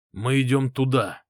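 firm, assured declaration; steady, confident command. Acted. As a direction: say it like a leader who won't be argued with. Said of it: "сказал я уверенным голосом".

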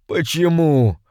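high, strained imp pleading its master; a petty demon begging for release, voice pitched high; high complaining imp; whining little demon. A narrator's reading. Imp asks why.

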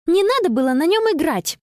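high, reproachful cry. A narrator's reading. Girl scolding friend over the phone, indignant. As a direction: blame her, indignant. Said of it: "воскликнула Конни".

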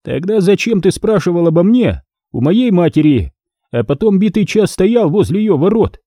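contemptuous boss. A narrator's reading. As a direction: shoo the underling away.

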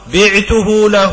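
slow, deliberate بعته له with each word drawn out; dictating the formula slowly; slow quoted formula. Shown as a demonstration. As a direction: spell out بعته له slowly for the students. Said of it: "أقول".

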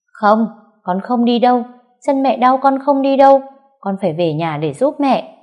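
put-on high, loud little boy protest; boy refusing to leave his hurt mother; child refusing. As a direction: dig in like a stubborn crying boy.

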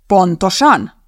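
loud, startled confirmation; a touch of surprise; unable to hide surprise. A narrator's reading. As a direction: confirm it, slightly taken aback. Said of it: "Nem tudta elrejteni a meglepetségét".

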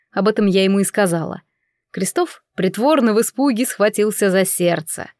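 usual speaking voice

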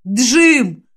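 calling out to a friend; called out. Acted. Friends call Jim from behind Sabron, shouting. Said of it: "выкрикнули друзья".

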